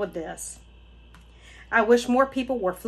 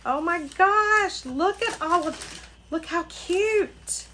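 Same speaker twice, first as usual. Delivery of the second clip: much higher, gushing; squealing delight; 8 semitones higher than usual. Real, not acted. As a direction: squeal over how cute it is. Gushing over the stickers.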